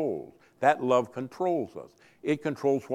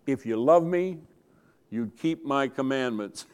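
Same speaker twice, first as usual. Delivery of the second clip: stern mother. Retold or imitated. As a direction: quote mom lightly stern, half laughing. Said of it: "she would sternly look at us and say".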